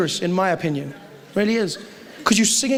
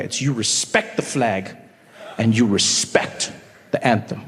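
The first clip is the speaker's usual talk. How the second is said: mock solemn; 9 semitones lower, 4 dB quieter, slower than usual. Solemn mock patriotic lesson.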